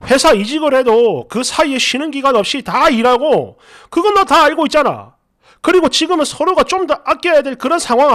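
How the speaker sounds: mildly heated retold scolding. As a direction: press the point like an exasperated boyfriend. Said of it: "이렇게 언성을 좀 높였어요".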